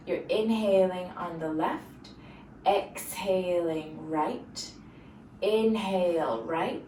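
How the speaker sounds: slow, drawn-out breathing instructions; guided breathing cues. Acted. Yoga teacher recapping one round of breathing, slow guided cues. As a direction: stretch each cue to a breath's length.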